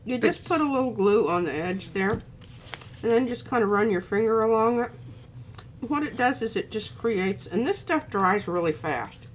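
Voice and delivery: talking with a pin in mouth; words round a pin held in the lips. Real, not acted. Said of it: "Y'all understand me with the pin in my mouth?".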